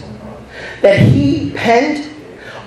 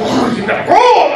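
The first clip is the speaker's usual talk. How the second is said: mock yell, higher and laughing; grumpy neighbor chasing kids away, mock shout; 4 semitones higher than usual. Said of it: "he would always yell at us".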